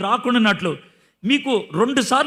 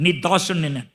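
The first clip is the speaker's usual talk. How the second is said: humble; 5 semitones lower than usual. Retold or imitated. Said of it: "అలాగా దీనంగా మాట్లాడుతూ".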